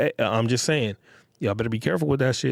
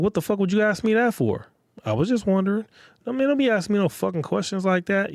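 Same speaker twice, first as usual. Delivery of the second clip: a high, pitched-up imitation of an irritated man; frustrated snap; 8 semitones higher than usual. Man snaps at his date over the cheating question, mock frustrated. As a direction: play the guy who is annoyed at the question. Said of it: "You hear this frustration?".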